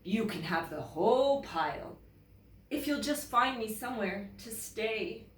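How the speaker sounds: coaxing, slowing at the end; smiling polar bear. Acted. Polar bear asking Bear for somewhere to stay, pleading. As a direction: plead for a new home. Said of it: "he added with a smile".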